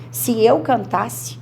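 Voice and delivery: slow, deliberate conjugation; teacher modelling the subjunctive forms slowly; slow demonstration. Shown as a demonstration. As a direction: lay out "Se eu cantasse, que eu cante. Quando eu cantar." slowly. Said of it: "Agora, olha o subjuntivo".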